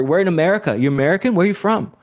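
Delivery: high, pushy mock questioning; imitated interrogation. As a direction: pepper him like a rowdy stranger. Imitates stranger questioning him.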